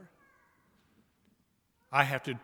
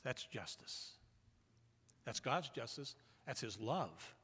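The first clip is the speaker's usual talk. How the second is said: hushed solemn; 3 semitones lower, 7 dB quieter than usual. Real, not acted. Solemn passage about the cross.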